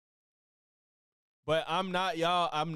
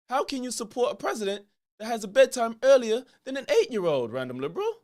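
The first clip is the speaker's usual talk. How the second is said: attempted British accent, lightly done, pompous host; a talk-show host's mock British voice, barely shifted; Piers Morgan impression; 4 dB louder than usual. Host opening his show for a random liberal, in a light British accent. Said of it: "I'ma show y'all my Piers Morgan impression".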